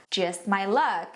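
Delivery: low, slow, wry delivery; sarcastic intonation. Shown as a demonstration. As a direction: drop the pitch and draw it out with irony. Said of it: "tem que dar essa entonação". (tom irônico, grave e lento)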